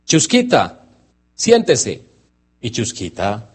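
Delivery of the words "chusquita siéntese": higher, calling a dog to sit; owner's firm command. Retold or imitated. A dog owner gives a command, firm and higher.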